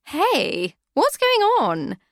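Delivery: rising in sudden alarm; startled diva. Acted. Annie startled by grinding noise.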